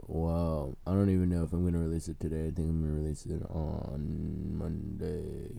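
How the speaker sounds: low creaky tired voice; gravelly sleepy fry; vocal fry. Real, not acted. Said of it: "We're all in the vocal fry time".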